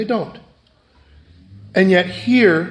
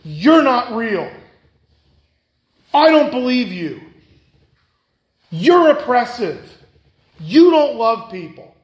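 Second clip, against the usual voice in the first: higher, slow, a mild mock of a defiant unbeliever; defiant accusation; 4 semitones higher, slower than usual. Unbeliever shaking his fist at God, mock defiance. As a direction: throw the accusation at God, measured. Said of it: "shakes his fist".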